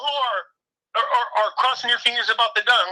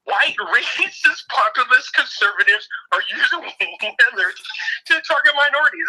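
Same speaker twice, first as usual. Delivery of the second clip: mocking quote; 2 semitones higher than usual. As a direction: parody the claim, barely holding a laugh. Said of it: "They're like".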